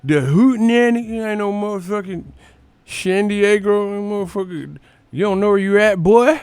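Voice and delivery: high, twangy mock Texan yelling; angry Texan crowd. Streamer imitating angry Texans in a hammed-up Southern twang. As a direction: ham up an outraged Southern local. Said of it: "They're like".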